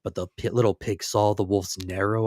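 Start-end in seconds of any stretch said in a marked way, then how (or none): 0.0-0.3 wolf calling loud at the door, rising on the last plea; big bad wolf coaxing at the door; louder wolf wheedling to be let in; sly wolf. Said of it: "knocked on the door and said".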